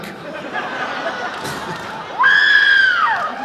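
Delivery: high shrieking cackle; shrieking laugh. Real, not acted. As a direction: cackle way up high at your own joke. Big laugh after the bit.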